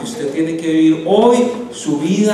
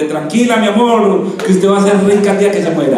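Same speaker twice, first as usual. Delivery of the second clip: higher, sweetly dismissive reassurance; mock consoling missionary; 4 semitones higher, 4 dB louder than usual. Missionary soothing someone in a poor neighbourhood, mock reassurance. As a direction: breezily comfort her with an empty promise.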